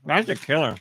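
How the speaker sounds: talking while chewing a cookie; words round a mouthful; mouth full. Real, not acted. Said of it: "I'll stop talking with my mouth full".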